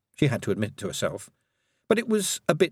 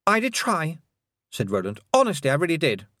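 put-on higher, pleading young lord; earnest boy; 7 semitones higher than usual. A narrator's reading. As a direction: insist eagerly, voice raised. Roland protests his effort.

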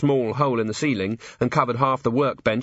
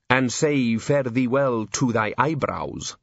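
archaic solemn voice; slower than usual. Acted. Archaic mock warning.

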